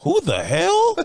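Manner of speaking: squeaky high laugh-out question; can't believe it, cracking up; laughing disbelief. Real, not acted.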